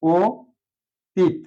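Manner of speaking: অতীত spoken as ও তিত, split syllables; closed o sound. Shown as a demonstration. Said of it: "অটা ও হয়ে যাবে".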